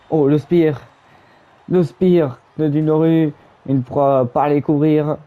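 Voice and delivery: excited commentator. Acted. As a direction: hype up the spear. Big move called.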